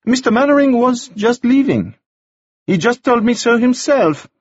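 pointed dismissal. Acted. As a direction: show him the door.

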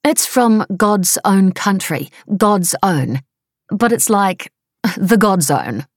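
a hint of an eager Kiwi wife; wife's voice. A narrator's reading.

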